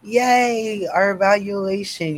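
high, loud little cheer; upbeat hooray for the announcement; cheery announcement. Real, not acted. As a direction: cheer it playfully.

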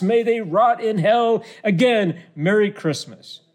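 slow, high mock proclamation; Donald Trump. Host finishing Trump's all-caps Christmas message, mock-ranting. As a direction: hammer out the all-caps curse, drawn out. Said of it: "all caps".

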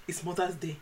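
mum's voice with a laugh breaking through; a hint of an Igbo mum complaining; imitating mum. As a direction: scold like a dramatic mum. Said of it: "She was like".

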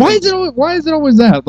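very high eerie mocking voice; high creepy voice.

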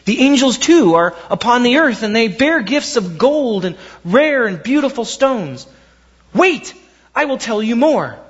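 lightly voiced, eager tall tree; excited messenger sharing big news; tall tree telling news. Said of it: "finally said to him".

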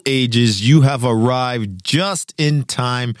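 booming ringmaster announcement. Pretend. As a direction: roll it out like a circus ringmaster. Circus-style opening announcement.

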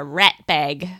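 put-on light Kiwi accent on the words; imitated New Zealand accent. Co-host quotes a Kiwi colleague's nickname for baby, New Zealand accent. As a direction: mimic a Kiwi saying it. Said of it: "work with this Kiwi lady".

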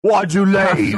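creepy butler. Pretend. Voicing the butler.

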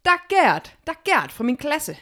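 high, loud imitated child's announcement; pointing girl calling out. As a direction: call it out to everyone, high and falling. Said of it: "Christina peger på hende og siger".

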